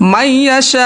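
মাইয়াশা with মাই held long; drawn মাই. Shown as a demonstration. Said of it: "এখানে মাই টান হবে".

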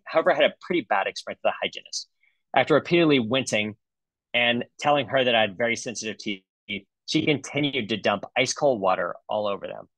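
lightly voiced complaining patient; impersonating the patient. Dentist reads a patient's bad review aloud, lightly impersonated. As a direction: read it out as a mock-aggrieved patient. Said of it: "this is my impersonation of the patient".

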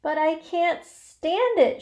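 high, loud, drawn-out protest; anguished shout. A narrator's reading. Pig protests to dying spider, anguished shout. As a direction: shout it out, unable to bear it. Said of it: "shouted Wilbur".

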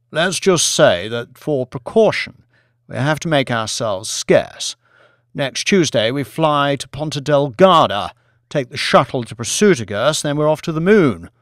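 breezy, confident pal letting him in on a secret; Billy's voice. Acted. Billy explains the moon plan.

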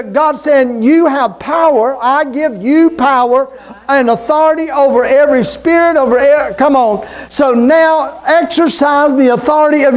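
emphatic preacher's proclamation; preaching. Real, not acted. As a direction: exhort the congregation, pitch held up. Preaching at raised pitch.

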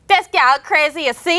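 imitating a Caribbean accent from a voice note; lightly put-on island accent; a hint of Caribbean man ranting. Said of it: "Let me see if I can do the accent".

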